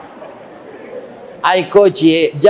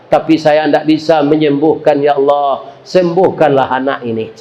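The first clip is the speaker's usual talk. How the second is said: tearful prayer. Acted. Director prays after reading referral.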